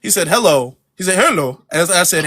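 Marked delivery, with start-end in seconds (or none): 0.3-0.8 lightly imitated accent on "Hello"; first, milder take of the mimicked accent; slipping accent. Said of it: "his accent slipping a little bit". 1.2-1.6 mock accent with r-coloured first vowel in "Hello"; slipping accent. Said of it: "his accent slipping a little bit".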